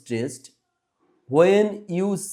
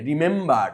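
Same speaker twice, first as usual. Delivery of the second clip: second syllable মেম of রিমেম্বার stressed; stress on MEM. Shown as a demonstration. Teacher shows pupils the clap syllable, stressed মেম in রিমেম্বার. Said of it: "মেম উচ্চারণের সময় তালি দিতে হবে".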